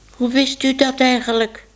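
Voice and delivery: sudden puzzled surprise; baker's wife stares at Minoes, surprised. A narrator's reading.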